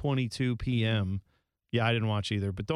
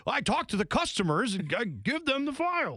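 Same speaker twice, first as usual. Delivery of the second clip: higher, rising, half-laughed movie quote; quoted movie character; 11 semitones higher than usual. Retold or imitated. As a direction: parody the clueless office worker. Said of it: "we're just quoting a movie".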